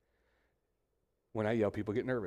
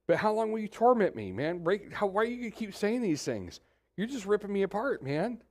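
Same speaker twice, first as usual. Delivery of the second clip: desperate plea; 9 semitones higher than usual. Acted. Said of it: "the desperation in Job's voice".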